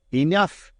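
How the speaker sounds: an angry piper's loud Enough; cried out. A narrator's reading. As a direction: cut him off with a cry. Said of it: "he cried".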